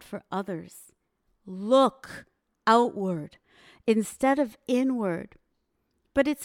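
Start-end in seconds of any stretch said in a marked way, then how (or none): 1.5-5.4 emphatic call. Real, not acted. Speaker urging the audience.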